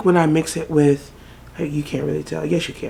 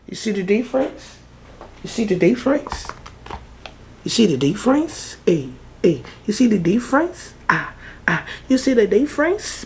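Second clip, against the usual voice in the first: higher rising sing-song question; playful teasing; playful taunt; 6 semitones higher than usual. Real, not acted. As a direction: tease the viewer with it.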